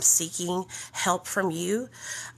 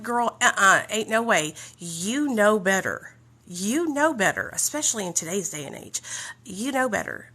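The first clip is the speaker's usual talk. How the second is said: sassy scolding. Retold or imitated. Scolding the sponsor back.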